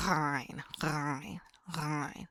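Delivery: "rein" gargled from the back of the throat. Shown as a demonstration. Teacher demonstrating the ghain sound. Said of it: "in the back of the throat".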